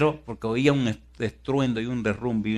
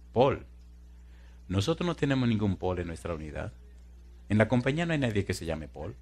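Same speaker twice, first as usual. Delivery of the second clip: acted fire captain; 4 dB quieter than usual. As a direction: answer evenly in a lowered voice. Acting the captain's official reply.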